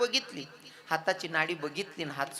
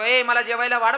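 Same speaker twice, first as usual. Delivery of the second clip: put-on drunken command; 5 semitones higher, 7 dB louder than usual. Drunk husband orders food.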